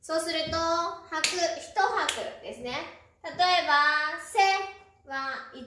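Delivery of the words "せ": "せ" as one short isolated beat; one crisp count of "せ"; single mora. Shown as a demonstration. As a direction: say "せ" alone, as one separate sound. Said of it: "音も一つです".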